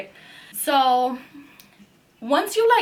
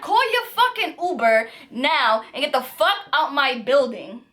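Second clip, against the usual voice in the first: retold yelling; 2 semitones higher than usual. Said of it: "we're screaming at the top of our lungs".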